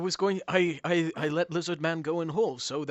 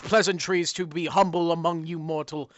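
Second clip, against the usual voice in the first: booming demon lord; 4 dB louder than usual. Acted. GM voices menacing dog-god.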